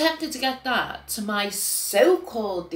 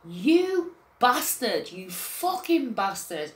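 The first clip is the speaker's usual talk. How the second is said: slow reenacted curse; 2 semitones higher, slower than usual. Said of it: "I fucking did".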